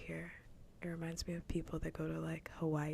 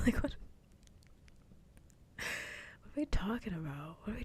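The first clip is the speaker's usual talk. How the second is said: laughing disbelief; 4 semitones higher, faster than usual. Real, not acted. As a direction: laugh it out, incredulous. Laughing in disbelief mid-rant.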